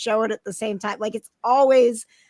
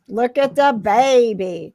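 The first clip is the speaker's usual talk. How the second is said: cooing; 5 dB louder, slower than usual. Real, not acted. Cooing at a pet.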